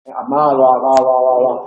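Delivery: amaba, va, va, va con la b suave y continua; b fricativa aproximante. Shown as a demonstration. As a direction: repite va aislando la b sin cerrar del todo los labios. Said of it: "Esa es fricativa o aproximante". (amaba, va, va, va con b aproximante entre vocales)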